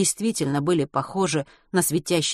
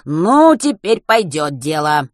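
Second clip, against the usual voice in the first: pleased; 7 dB louder, slower than usual. A narrator's reading. Joyful after finding rod.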